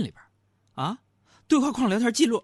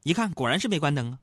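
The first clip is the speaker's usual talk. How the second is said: ordinary talk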